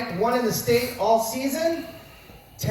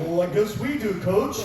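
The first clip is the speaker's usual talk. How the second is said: sheepish laugh. Retold or imitated. Kid sheepishly answering the coach.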